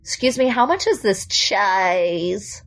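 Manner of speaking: slow creaky California shopper; vocal fry. Acted. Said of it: "That almost sounds like California vocal fry".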